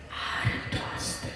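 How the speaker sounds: barely audible whisper. Shown as a demonstration. Preacher whispering to show the crowd how to say it softly. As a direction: breathe it out. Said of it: "যত আস্তে করে বলতে বলবো".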